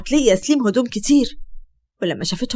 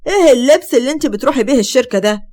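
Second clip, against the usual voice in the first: mocking, a bit raised and louder; fiancé mocking her outfit, sarcastic; 3 semitones higher, 3 dB louder than usual. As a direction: sneer at her clothes. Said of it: "قال سليم بسخرية".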